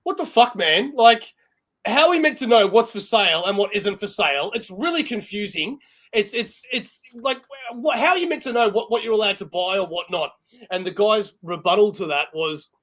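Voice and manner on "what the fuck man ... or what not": mock outraged complaint, a touch higher; mild imitation of an annoyed customer; irate mother-in-law. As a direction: play the fed-up shopper, lightly. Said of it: "she's basically said to him in Spanish".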